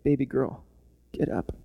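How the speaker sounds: softly, a touch of tenderness; tender. Acted. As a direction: gently wake a little child. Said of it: "The tenderness, the kindness in his voice".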